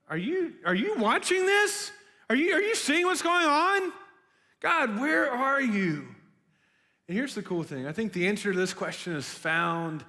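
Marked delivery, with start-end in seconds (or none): 0.1-6.1 pleading cry to God. Retold or imitated. Desperate prayer to God, retold.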